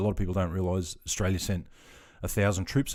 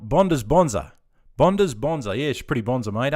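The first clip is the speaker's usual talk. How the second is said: excited; 4 semitones higher, 9 dB louder than usual. Real, not acted. Reading viewer name, delighted.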